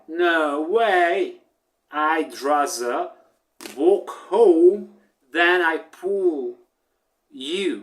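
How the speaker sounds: defiant rooster turning the job down; rooster refusing. Acted.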